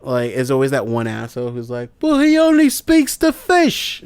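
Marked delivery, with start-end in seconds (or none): 2.0-4.0 much higher, slow, nasal-free put-on snoot; smug know-it-all. Host mocks the fan who says Aquaman talks to fish, high slow sneer. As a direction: drag it out like a smug heckler.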